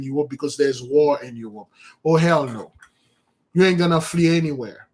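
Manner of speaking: forceful street-preacher warning, pushing every line; preaching at full force. Acted. Preacher warning the crowd who flee to the Caribbean, forceful sermon voice.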